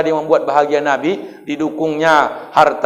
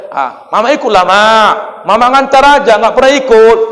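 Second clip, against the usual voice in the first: put-on pleading child; 4 semitones higher, 5 dB louder than usual.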